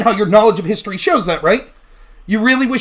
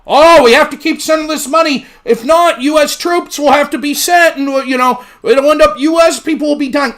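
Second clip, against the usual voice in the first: mocking official claim, louder; 5 semitones higher, 5 dB louder than usual. Streamer mocking the Secretary's warning, in a sneering voice. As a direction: parody the secretary's warning, pushed up. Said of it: "What do you think they're saying now".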